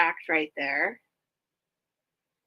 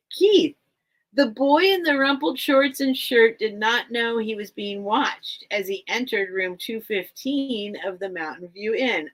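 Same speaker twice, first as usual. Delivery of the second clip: put-on reading a children's book aloud, a little raised; story narration; 2 semitones higher than usual. Bookseller reading the opening line to viewers, storytelling.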